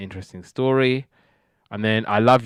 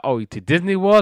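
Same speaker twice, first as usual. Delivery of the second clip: high, louder imitation of hopeful kids; excited kids; 8 semitones higher, 5 dB louder than usual. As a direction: pipe up like kids hoping for a treat. Kids hope for Disney holiday.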